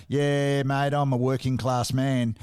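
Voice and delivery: put-on joking broad Australian accent, drawn out; a singer. Joking that a singer never sings like this, Aussie accent. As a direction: exaggerate the Aussie accent, slowly. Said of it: "you'll never hear him singing a".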